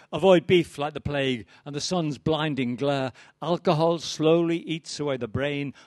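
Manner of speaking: measured, rhythmic poetry reading; poem recital. Acted. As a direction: recite it like a stage poet, each line landing. Reads his villanelle to audience.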